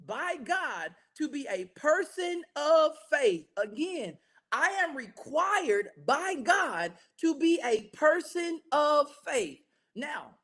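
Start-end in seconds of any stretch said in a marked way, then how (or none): 0.1-3.4 lead congregation in repeating. Shown as a demonstration. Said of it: "Say that with me". 4.5-9.6 lead congregation in repeating. Shown as a demonstration. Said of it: "Say that with me".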